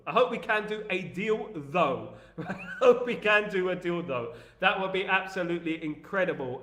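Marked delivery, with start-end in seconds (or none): 0.1-2.1 East London accent, said with a rise and then a dropped 'though'; English accent. Shown as a demonstration. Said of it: "It's my old English accent". 2.3-4.3 laughing English accent; Cockney line broken by laughter; laughing through the accent. Shown as a demonstration. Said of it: "It's my old English accent".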